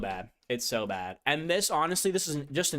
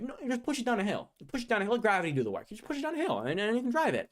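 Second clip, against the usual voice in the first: mock salesman; 7 semitones higher, much faster than usual.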